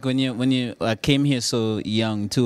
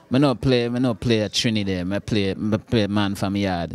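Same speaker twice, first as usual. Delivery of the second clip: put-on Jamaican accent. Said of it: "I was junior".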